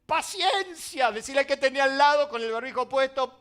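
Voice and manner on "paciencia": drawn-out patience. Acted. Pastor answers impatient church member.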